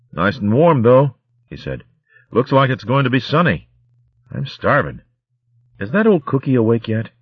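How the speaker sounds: put-on high, lively young shrew. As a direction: stiff and waking, chirpy. Welko speaks, grinning.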